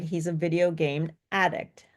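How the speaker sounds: "addict" with stress on AD; noun stress. Shown as a demonstration. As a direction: land on ADdict, first syllable strong. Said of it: "on the first syllable".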